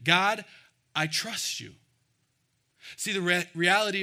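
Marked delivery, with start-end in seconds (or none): 0.0-1.8 proclaiming. Retold or imitated. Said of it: "what Jesus is proclaiming".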